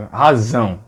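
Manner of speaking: razão with a clear buzzing z; voiced z sound. Shown as a demonstration. Teacher showing the z in Razão. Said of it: "Razão é com Z".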